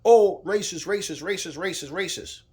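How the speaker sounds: loud, high mock chant of racist, fading down; mock outrage repeated, then trailing off; mocking outcry. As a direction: parody the crowd crying racist. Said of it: "Didn't they just say that".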